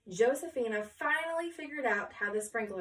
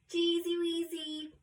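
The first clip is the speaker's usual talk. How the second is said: sing-song chorus; 7 semitones higher than usual. Acted. Class says cheese.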